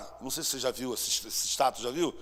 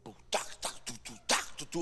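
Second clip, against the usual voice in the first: drum imitation; 5 semitones lower, 5 dB quieter than usual. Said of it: "estavam tocando um tambor".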